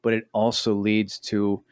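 slow, ominous reading of "toxic effects"; spooky narrator voice. Acted. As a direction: read it like a horror trailer. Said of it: "I don't have a scary sound".

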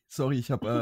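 talking after swallowing wrong way; throat still catching from choking; choking on a drink. Real, not acted. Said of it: "Hat sich da jemand verschluckt?".

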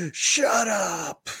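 high, drawn-out comic yell; high-pitched mock outburst; Adam Sandler impression. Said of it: "I was trying to impersonate Adam Sandler there".

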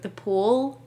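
"pool" with a rounded American oo; American pronunciation of pool. Retold or imitated. Scot talking to a guest to be understood, American "pool". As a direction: put on an American "pool", back-of-the-mouth oo. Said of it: "I'll be like".

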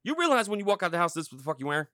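loud scolding. Retold or imitated. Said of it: "be like".

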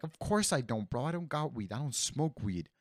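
offended, insistent self-defence; indignant denial. Retold or imitated. Retold denial of weed accusation.

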